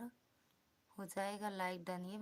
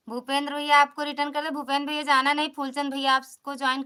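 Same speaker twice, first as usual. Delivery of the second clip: faster and louder, calling to him by name; 3 semitones higher, 4 dB louder, faster than usual. Real, not acted. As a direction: call it out so he hears it this time. Repeats the news, calling out. (तेज़ और ज़ोर से पुकारते हुए)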